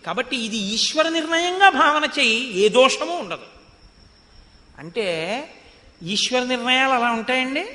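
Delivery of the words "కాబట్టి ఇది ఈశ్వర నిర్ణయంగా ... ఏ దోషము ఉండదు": persuading Ravana. Acted. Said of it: "అన్నాడు".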